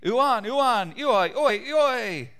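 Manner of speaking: loud, high revelry cries; joyful crowd chanting at a festival; shouting. A narrator's reading. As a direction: whoop it up like a wild party crowd. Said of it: "everybody was shouting".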